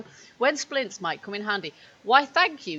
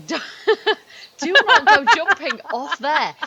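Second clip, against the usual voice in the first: laughing; 7 semitones higher, 8 dB louder than usual. Real, not acted. Laughing warning to partner.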